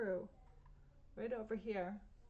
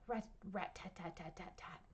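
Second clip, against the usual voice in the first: woodpecker tapping; 3 semitones lower, 6 dB quieter than usual. A narrator's reading. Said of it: "He goes".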